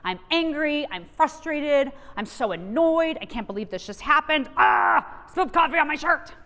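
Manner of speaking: mock frustrated rant building to a shout; calling out frustration. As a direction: vent it, rising to a shout over the coffee. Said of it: "Call it out".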